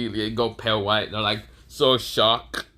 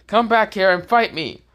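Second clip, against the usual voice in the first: mock challenge; 10 semitones higher, 3 dB louder than usual. Satoru challenging.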